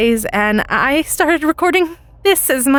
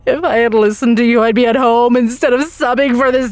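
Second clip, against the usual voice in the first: panicked sub; 3 semitones higher than usual. Acted. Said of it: "He breaks into hysterics".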